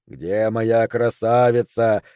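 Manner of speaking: slow, lumbering playful monster; ape-like monster voice. Acted. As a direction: creep up like a shuffling ape. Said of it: "развёл по обезьяньи руки".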